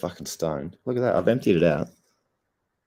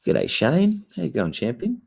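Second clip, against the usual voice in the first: loud greeting; 10 semitones higher, 3 dB louder, slower than usual. Acted. Greeting a chat viewer loudly.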